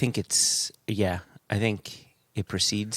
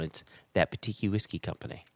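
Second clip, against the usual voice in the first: monotone; 7 dB quieter than usual. Shown as a demonstration. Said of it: "it's all monotone".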